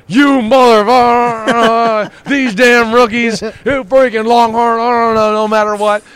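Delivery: loud, high, slow furious roar at a rookie; imitating Warren Sapp's angry yell. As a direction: bellow it like an enraged veteran. Sapp yelling at rookie.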